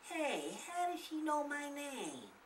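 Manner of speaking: wondering to himself; inner thought. Acted. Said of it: "the boy thought".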